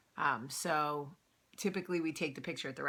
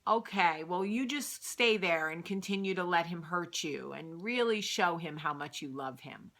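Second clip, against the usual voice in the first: patronizing. Retold or imitated. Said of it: "So patronizing".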